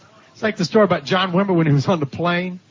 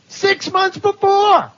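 much higher and slowed, every word stretched; emphatic preaching; 13 semitones higher, much slower than usual. Real, not acted. The preacher marvels at God's foreknowledge to the congregation, high and drawn out. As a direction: lift it up and hold it out.

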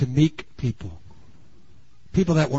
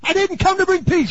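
louder, higher, stressing "to" hard; forceful Jesus quote; 13 semitones higher, 4 dB louder than usual. Shown as a demonstration. Preacher repeating Jesus's words to the congregation, forceful. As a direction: declare "I didn't come to bring peace" with force. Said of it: "He even once said".

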